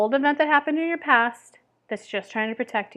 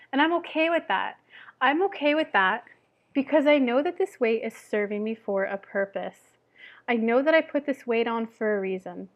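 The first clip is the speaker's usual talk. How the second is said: kind self-talk; 3 dB quieter than usual. Shown as a demonstration. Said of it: "Or you could say".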